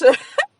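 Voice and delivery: a loud high burst of laughter. Real, not acted. Laughing at husband's remark.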